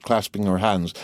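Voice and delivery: ordinary delivery, nothing marked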